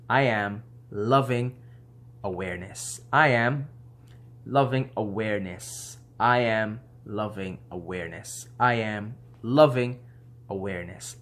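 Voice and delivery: meditative repetition; repeated mantra. Shown as a demonstration. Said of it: "you probably wanna say that in your meditation".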